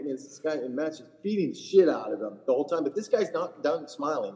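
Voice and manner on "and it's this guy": normal talking voice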